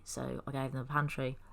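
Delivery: talking between sips of tea; sipping tea. Real, not acted. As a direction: speak around a sip of tea. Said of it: "Sorry, sipping tea".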